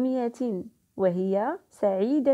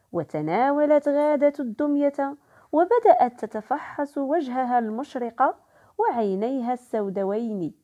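put-on storytelling voice for children; story narration. A narrator's reading. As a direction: read the story aloud to the kids. Teacher reads story to children.

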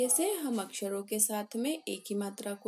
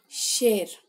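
plain; 7 dB louder, much slower than usual. Shown as a demonstration. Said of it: "श में ए की मात्रा".

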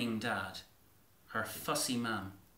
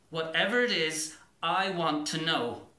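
louder, firm demand; the daughter demands her parents tell her, firm and louder; determined; 3 semitones higher, 6 dB louder than usual. Acted. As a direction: insist on the truth, louder. Girl insisting to parents.

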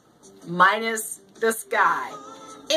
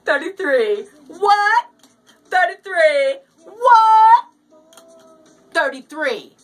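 each what higher and louder, building; call and response; 4 semitones higher, 5 dB louder than usual. Pretend. Host plays call and response with listeners, building to a shout. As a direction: build a playful shouted back-and-forth.

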